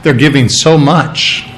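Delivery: low, hushed, awed murmur; impressed onlookers. Retold or imitated. Crowd murmurs in mock awe at the rich givers. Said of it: "everybody would look over and go".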